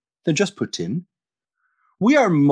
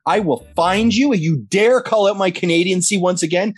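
jokey fake fury, slowing right down on the poutine and maple syrup lines; mock aggressive rant. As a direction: play-act a furious Canadian coming for a friend. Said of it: "that was very aggressive".

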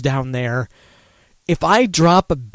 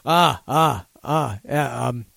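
put-on Australian accent; 3 semitones higher, 3 dB louder than usual. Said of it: "He feels like he's an Outback Steakhouse".

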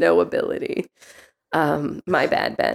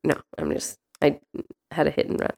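whispering; 4 semitones lower, 8 dB quieter, faster than usual. Pretend. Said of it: "can I tell you a secret?".

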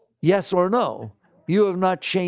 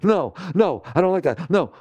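mock refusing mind; 4 dB louder than usual. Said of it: "Instead of".

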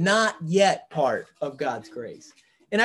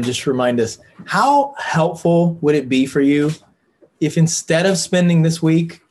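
louder, pressing preacher's appeal to the group; earnest preaching; 2 semitones lower, 5 dB louder than usual. Real, not acted. Group leader pleading with the Bible study, preaching. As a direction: urge the class like a preacher from the pulpit. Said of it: "I'm sorry to preach at you".

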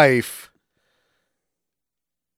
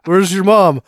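startled son; 6 semitones higher, 4 dB louder, slower than usual. Retold or imitated. Son startled seeing dead dad.

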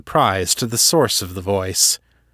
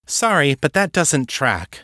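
higher-pitched, doubting objection; skeptical challenge; 5 semitones higher than usual. Acted. Kate doubting Levinson's account of Artax, skeptical. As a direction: push back on the story, unconvinced.

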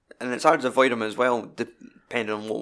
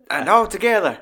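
higher, louder conductor's call; showman cue; 9 semitones higher, 8 dB louder than usual. Retold or imitated. Cueing the crowd to join in, hammed-up showman call. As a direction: lead the crowd like a ringmaster. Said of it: "he's like".

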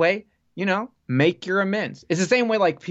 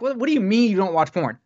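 retold disbelief, pitched up; higher-pitched, incredulous comeback; 5 semitones higher, faster than usual. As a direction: challenge him in mock disbelief. Acted disbelief at coworker's claim.

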